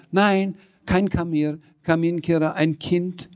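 high-pitched flustered correction; excited. A narrator's reading. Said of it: "sondern sagte aufgeregt".

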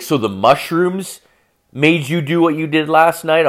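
mock a girlfriend's disbelieving question; incredulous questioning. Girlfriend questioning boyfriend about last night, incredulous.

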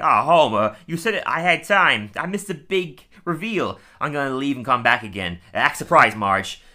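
a hint of the grumpy barkeep, pushed up and out; Moe. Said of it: "Moe comes out and he's like".

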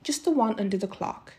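expressive read-aloud with lightly voiced dialogue; story narration. A narrator's reading. Reader telling a story for children to follow, measured narration.

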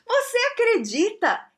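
can't believe it, drawn out high; stunned disbelief. Real, not acted. To viewers, about the towel favor, stunned disbelief.

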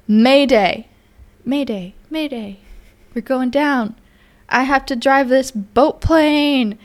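lightly acted panicked pilot; Jack reenactment. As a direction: play the crashing pilot. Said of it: "That was my reenactment of Jack".

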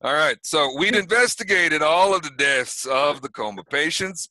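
lightly voiced sheriff, a touch of New York; a police chief reporting to the party, lightly New York; small-town sheriff.

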